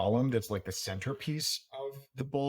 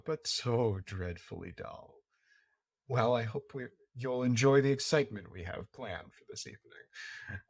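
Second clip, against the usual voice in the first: gracious society hostess. Acted. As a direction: purr like a bored, gracious hostess. GM plays the hostess.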